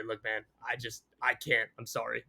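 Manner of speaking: soft, sheepish refusal; hushed sorry, backing off; quiet apology. Retold or imitated. Source politely refusing to share.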